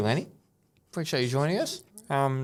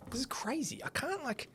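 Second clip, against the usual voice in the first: whispering; 12 dB quieter than usual. Real, not acted. Straining to break biscuit.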